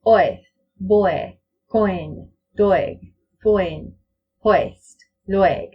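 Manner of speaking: each word gliding from o toward eh; oe diphthong demo. Shown as a demonstration. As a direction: say oi but end on eh. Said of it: "So this is how it sounds".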